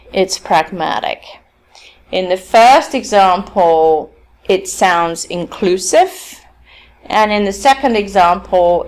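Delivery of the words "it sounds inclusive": slow, with "inclusive" lifting at the end; rising tone. Shown as a demonstration. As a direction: draw out "inclusive" and turn it upward. Demonstrating rising tone of first example.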